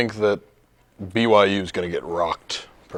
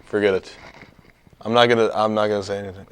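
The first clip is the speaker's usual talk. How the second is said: mock-humble over-apologizing; sarcastic apology. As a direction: grovel with a wink. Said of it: "We're being sarcastic".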